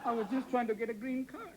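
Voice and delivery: put-on Italian accent. Guest excusing himself to the host, Italian accent. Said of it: "stop using that ridiculous Italian accent".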